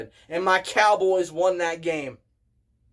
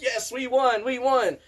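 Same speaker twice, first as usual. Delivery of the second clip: retold celebratory yell; 6 semitones higher than usual. Chiefs fans celebrating the field goal, mildly imitated yelling. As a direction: imitate fans whooping at a win, held back. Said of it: "started screaming and high-fiving and yelling".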